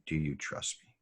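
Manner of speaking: soft, hushed repeat of the question; quiet recollection. Retold or imitated. Speaker quietly recalling the sergeant's question to the host, soft and hushed. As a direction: say it softly, looking back on the moment.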